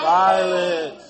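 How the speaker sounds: Violet. called out loud and falling; triumphant teacher shout; excited confirmation. Real, not acted. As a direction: praise the right answer with a shout. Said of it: "confirms student answer loudly".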